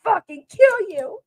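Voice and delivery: high, slow mock snarl of the threat; imitating her threat. Streamer replays the caller's threat as a high mock snarl. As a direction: parrot her crying threat, hammed up. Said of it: "I wanna know if that's how she said it".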